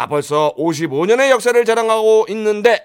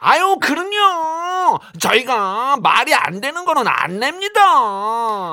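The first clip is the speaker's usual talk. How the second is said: nasal voice; 3 semitones higher, slower than usual. Acted. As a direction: whine it slowly through the nose. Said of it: "아우, 그놈의 용". (느리게 늘어지는 콧소리)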